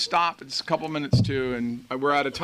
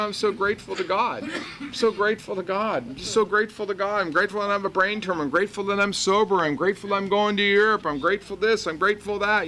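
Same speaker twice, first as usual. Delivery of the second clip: gushing gratitude; 5 semitones higher, faster than usual. Retold or imitated. Cheery gratitude mocked by woman.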